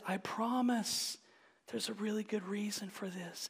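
gently voiced, unhurried reassurance; reassuring father. Heavenly Father to screaming children, mildly soothing. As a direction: lightly play a comforting father.

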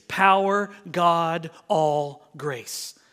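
"power" hit hard, then "God, all grace" stepping down; emphatic. Shown as a demonstration. Preacher showing the Greek word order, emphatic on "power". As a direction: punch "power" and space out each word. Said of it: "it's emphatic".

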